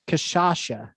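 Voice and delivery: kashasha said with a second sh; a careful, unsure go at "kashasha"; tentative attempt. Shown as a demonstration. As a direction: try "kashasha" softly, sh in both last syllables. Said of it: "let me try this".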